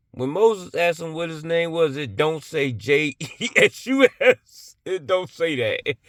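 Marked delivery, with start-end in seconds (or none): 2.7-4.8 letters spelled out slowly and louder; slow spelling. Real, not acted. Disputing the name Moses was told, slow emphatic spelling.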